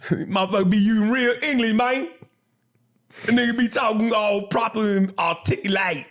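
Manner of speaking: lightly voiced uppity proper speaker, quick; mock someone talking all proper. A hint of mocking Southern critics of proper speech. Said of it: "them motherfuckers be talking, uh, properly".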